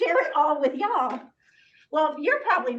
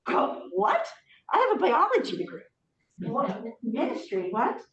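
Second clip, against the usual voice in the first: incredulous. Retold or imitated. Retelling her own disbelief.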